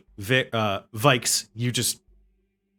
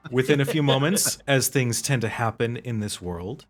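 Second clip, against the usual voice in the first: game master narration. Acted. Game master tells players how the slain evaporate, measured narration easing down. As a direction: begin firmly, then let it fade solemnly.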